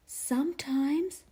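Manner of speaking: hushed secretive whisper. Acted. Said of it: "he whispered".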